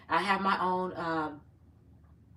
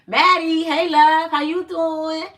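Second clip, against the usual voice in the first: excited greeting; 7 semitones higher, 9 dB louder, slower than usual. Real, not acted. Greeting a viewer in live chat.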